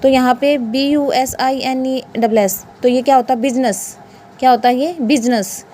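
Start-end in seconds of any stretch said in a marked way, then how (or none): 3.4-4.0 बिजनेस in two syllables, "biz-ness"; silent I. Shown as a demonstration. Teacher giving students the answer, silent I pronunciation. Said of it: "यहाँ पे आई नहीं बोला जाता". 5.0-5.7 बिजनेस as "biz-ness", falling tune; silent I. Shown as a demonstration. Teacher repeating the answer for students, silent I pronunciation. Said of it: "यहाँ पे आई नहीं बोला जाता".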